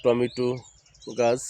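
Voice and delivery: টমেটো said as tomitu, i and u in place of e and o; Barisal dialect. Shown as a demonstration. Showing tomato plants to viewers, Barisal dialect. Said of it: "বরিশালের আঞ্চলিক ভাষায়".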